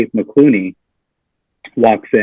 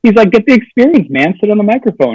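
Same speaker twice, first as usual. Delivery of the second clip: imitating friend; 6 semitones higher than usual. Friend's advice voiced in story.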